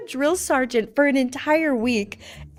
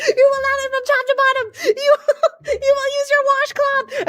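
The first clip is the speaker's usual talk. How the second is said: recruit reciting; 14 semitones higher, 4 dB louder, faster than usual. Retold or imitated. Private demonstrating to squad.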